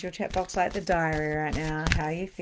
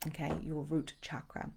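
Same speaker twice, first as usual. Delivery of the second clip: whispered aside; 2 semitones lower, 9 dB quieter than usual. Real, not acted. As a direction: drop into a whisper.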